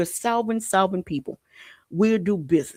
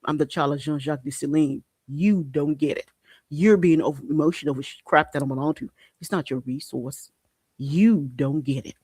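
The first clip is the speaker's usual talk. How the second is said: mock defiance; 2 semitones lower than usual. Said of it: "y'all don't be like".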